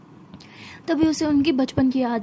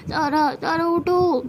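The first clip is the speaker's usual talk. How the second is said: slow, higher, drawn-out call; calling to wake someone; 4 semitones higher, much slower than usual. Acted. Sia wakes Tara in the morning, drawn-out calling. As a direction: stretch out the name to rouse a sleeper.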